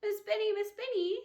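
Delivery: high, loud calls for the teacher; girl running to her teacher for help; crying out. A narrator's reading. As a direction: call out to the teacher in distress. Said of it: "she cried".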